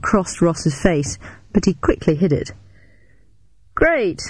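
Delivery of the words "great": uneasy enthusiasm. A narrator's reading. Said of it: "he enthused, slightly uneasily".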